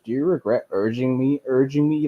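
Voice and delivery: urging me leaned on; stress on urging. Retold or imitated. Streamer imitating Ed, leaning on "urging". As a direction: push the word "urging" hard, regret and urging me. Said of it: "he put emphasis on that word".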